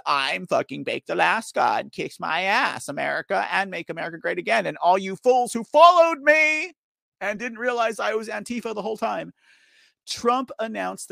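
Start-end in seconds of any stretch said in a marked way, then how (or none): 0.0-4.6 mock rioter quote. Mocking quote of Capitol rioter. 4.6-9.3 higher and louder mock outburst; mocking rant. Mocking rioter's confession.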